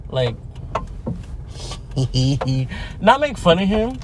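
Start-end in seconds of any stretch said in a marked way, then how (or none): 0.4-3.0 snickering laugh. Real, not acted. Laughs at own remark.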